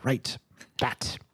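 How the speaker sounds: trails off into a whisper; flustered hush. Acted. Husband answering his wife, fading to a whisper. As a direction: voice drops to a whisper on the last word.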